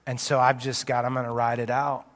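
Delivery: a hurting believer speaking to God; humble prayer. Shown as a demonstration. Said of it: "humility that says".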